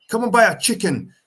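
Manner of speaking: high, loud street London ad voice; street London accent. Retold or imitated. KFC advert voice selling chicken in street London accent. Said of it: "they're using the street London in, like, adverts".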